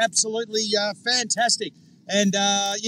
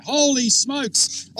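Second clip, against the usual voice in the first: slow, louder amazed exclamation; excited; 2 semitones higher, 5 dB louder, much slower than usual. Real, not acted. Bragging about his kilowatt of power, slow excited exclamation. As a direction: drag it out in amazement. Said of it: "I'm just getting too excited".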